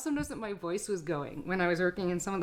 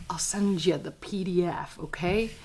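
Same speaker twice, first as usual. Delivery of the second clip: whisper. Acted. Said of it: "confiding to viewers".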